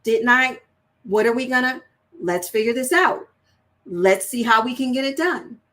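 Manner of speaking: a touch of stern assertiveness; firm, assertive guidance; stern teaching. Shown as a demonstration. Parent to child, lightly stern and assertive. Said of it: "a stern".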